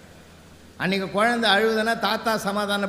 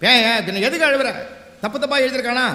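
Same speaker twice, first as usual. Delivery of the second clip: raised, pressing retold questions; insistent husband; 3 semitones higher, 4 dB louder than usual. Husband asking crying wife why she weeps, insistent. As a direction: press for an answer, imitating the husband.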